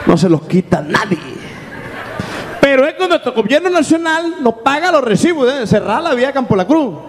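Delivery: high-pitched impression of a singer addressing fans. Late singer apologizing to his followers, high impersonated voice. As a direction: make grand excuses in his high voice. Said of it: pretending that the singer had arrived.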